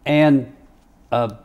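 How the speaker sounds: a hint of a pointed judge drawing out chiropractor; imitating the judge. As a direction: judge warning the jury about the paid chiropractor. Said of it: "and he says".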